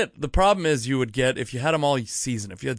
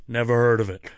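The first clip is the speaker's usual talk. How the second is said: put-on Italian accent; 4 dB louder than usual. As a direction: usher with a light Italian accent. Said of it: "I'm giving him an Italian accent".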